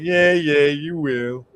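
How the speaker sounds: retold patronising tease; teasing humouring. Teasing his angry girlfriend.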